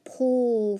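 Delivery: "pull" drawn out as the ending of staple; final-syllable sound. Shown as a demonstration. Teacher quizzing pupils on spelling sounds, isolated syllable. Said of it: "what about the pull sound".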